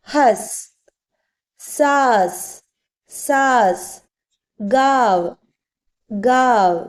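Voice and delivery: ഹസ്, സാസ്, ഗാവ് each without any nasal consonant; spaced, drawn-out ഹസ്, സാസ്, ഗാവ് with no m or n; silent nasal models. Shown as a demonstration. Teacher recapping how to pronounce them, nasal left silent. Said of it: "അപ്പൊ എങ്ങനെ ഉച്ചരിക്കേണ്ടത്".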